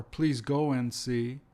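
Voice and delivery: slow, careful "please go and see"; slow quoted phrase. Shown as a demonstration. Teacher showing which words to drop. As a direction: set the phrase out slowly. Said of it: "it comes like this".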